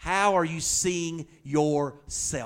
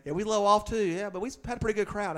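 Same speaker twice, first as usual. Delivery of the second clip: mock defensive pastor; 6 semitones higher, faster than usual. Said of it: "That's my response".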